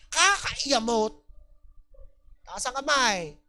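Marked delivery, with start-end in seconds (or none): 0.1-1.1 slow, louder drawn-out complaint; drawn-out annoyance. Retold or imitated. Churchgoer complaining to themself, slow louder annoyed groan. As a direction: drag the word out in annoyance. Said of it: "laging sinasabi ito".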